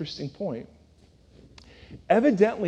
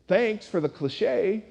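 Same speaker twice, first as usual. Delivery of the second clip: sarcastic thought; 2 semitones higher, 4 dB quieter, slower than usual. Retold or imitated. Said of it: "she immediately thinks".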